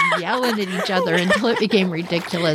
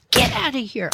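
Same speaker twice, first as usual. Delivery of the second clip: as mean as I could; 5 semitones higher than usual. Retold or imitated. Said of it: "I said as mean as I could".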